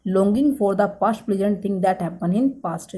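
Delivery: longing for the past spelled out word by word, very slow; very slow dictation. Shown as a demonstration. Teacher dictating the meaning to students, very slowly. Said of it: "dictating meaning again".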